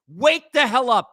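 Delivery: slow, loud, drawn-out scolding; exasperated shout. Real, not acted. Host yelling at deluded Met fans to wake up. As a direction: yell it at the fans to snap them awake.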